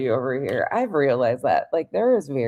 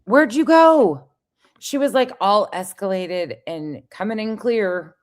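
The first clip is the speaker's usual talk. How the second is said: mocking radio voice; 6 semitones higher, 5 dB louder than usual. Mocking the clip voice.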